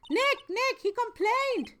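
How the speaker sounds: very high, loud, urgent call; excited tattling girl. Acted. Maya tells Nick someone complained, in high-pitched excitement. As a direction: squeal it to Nick in astonishment.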